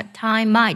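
"time I" joined as ti-mai; linked words. Shown as a demonstration. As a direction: run the m of "time" into "I". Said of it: "注意一下time I的连读". (把“time I”连读)

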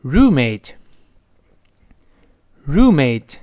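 “roommate” very slow and drawn out; model pronunciation. Shown as a demonstration. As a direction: stretch “roommate” out for learners to repeat. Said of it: "跟我读一遍". (缓慢拉长地领读“roommate”)

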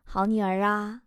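lightly voiced indulgent old man; generous old sugar daddy. Old man treating his goddaughter at the mall, lightly voiced generous indulgence. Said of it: "老头儿大方地说".

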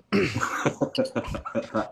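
a long amused laugh at the absurdity. Real, not acted. Storyteller laughing to his listeners, amused laugh. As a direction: laugh it off, a bit breathy and distant. Laughs after mocking dog lovers.

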